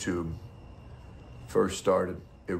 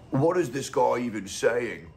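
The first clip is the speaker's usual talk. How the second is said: higher-pitched bad Russian accent; attempted Russian accent; 5 semitones higher, 3 dB louder than usual. Streamer imagining a baffled viewer of his video, poor Russian accent. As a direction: put on a clumsy Russian voice, pitched up. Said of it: "trying to do a Russian accent".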